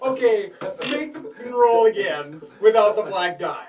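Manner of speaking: talking through laughter; loud and laughing through the words. Real, not acted. Laughing while giving instructions.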